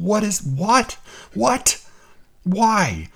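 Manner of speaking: baffled, pitch climbing on each what; incredulous what. Real, not acted. Podcaster baffled by the block quote, incredulous rising what. Baffled outburst at editorial choice.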